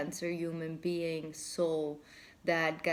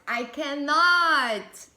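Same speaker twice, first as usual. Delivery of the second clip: higher, louder and very slow disbelief; more overwhelmed; 9 semitones higher, 12 dB louder, much slower than usual. Real, not acted. To viewers, overwhelmed by their reading, even louder and slower. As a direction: let it swell into a giddy cry.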